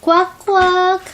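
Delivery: high quacking voice; duck quack. Shown as a demonstration. Mother models animal sound.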